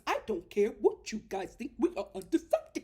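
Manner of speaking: put-on, broken-up whining imitation; hammed-up mimicry of a stubborn husband; mocking Chris's defiance. Chris insisting to the experts they are undecided, mocking. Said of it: "Chris starts doing this".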